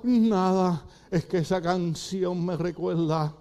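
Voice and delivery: slow, drawn-out weepy answer; mock tearful. Old diner explains the crying to companion, mock tearful. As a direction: answer as if choked by nostalgia, stretching words. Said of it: "por qué está llorando".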